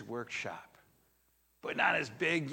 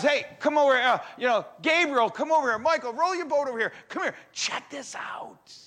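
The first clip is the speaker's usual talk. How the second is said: much higher, louder excited calling out; excited yell; 11 semitones higher, 9 dB louder, faster than usual. Retold or imitated. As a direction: shout to the angels to come see. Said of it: "And he yells".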